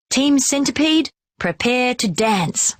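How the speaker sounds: rally the team with a yell. A narrator's reading. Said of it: "I yell".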